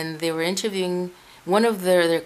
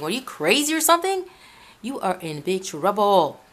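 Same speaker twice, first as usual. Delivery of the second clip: retold scolding; 2 semitones higher than usual. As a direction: scold the priest in disbelief, pitched up. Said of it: "So then I started scolding him".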